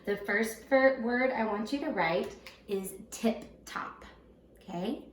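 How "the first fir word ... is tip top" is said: each word read slowly for spelling; slow, even dictation read. Shown as a demonstration. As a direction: dictate slowly so children can write. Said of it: "write these three words on your dictation paper".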